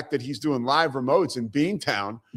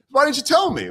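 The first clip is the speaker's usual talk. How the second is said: high-pitched mock indignant coach; Massimino; 10 semitones higher, 3 dB louder than usual. Head coach questioning his assistant, in high mock indignation. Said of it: "Massimino's like".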